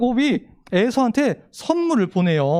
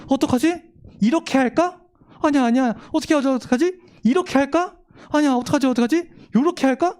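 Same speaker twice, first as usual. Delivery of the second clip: anxious fretting; 3 semitones higher than usual. Acted. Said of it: "어려움이 생겼을 때 이런 거예요".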